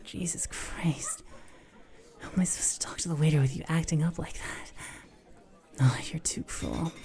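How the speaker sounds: hurried hushed whisper. Real, not acted. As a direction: whisper it under the breath. Whispering to partner in public.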